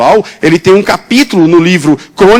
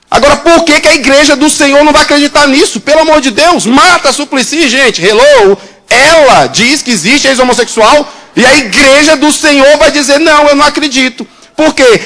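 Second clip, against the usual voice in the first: full-force preaching; 6 semitones higher than usual. Acted. Preacher scolding the church, full-force preaching. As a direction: hammer it home to the church.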